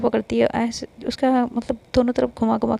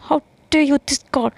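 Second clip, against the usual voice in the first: slow, higher, louder, stretched-out how dare you; dramatic outrage; 4 semitones higher, 4 dB louder, much slower than usual. Acted. The speaker repeats it, slow and hammed-up in fury. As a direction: drag every word out in theatrical fury. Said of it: "बस गुस्से में ही".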